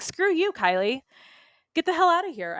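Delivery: high, pushed "get out" at an imagined foe; defiant telling-off. Pretend. Coach shooing away her inner gremlin Kylie, mock defiant.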